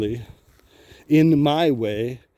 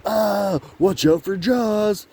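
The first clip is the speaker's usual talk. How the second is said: higher, slow spooky warning from a teasing dad; 8 semitones higher, much slower than usual. Retold or imitated. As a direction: tease the kid like a goofy dad. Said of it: "had to be like".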